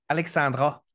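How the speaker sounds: attempted Quebec French accent; lightly imitated Quebec accent. Shown as a demonstration. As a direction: try the name Alexandra in a Québécois accent. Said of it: "je vais essayer de le faire avec l'accent du Québec".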